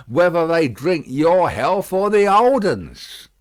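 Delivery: gruff working man voice; Jerry voice. A narrator's reading. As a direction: growl the quip out.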